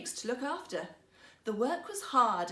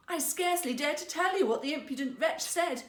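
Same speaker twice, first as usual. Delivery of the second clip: almost in tears; 4 semitones higher, 4 dB louder than usual. Acted. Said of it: "almost in tears".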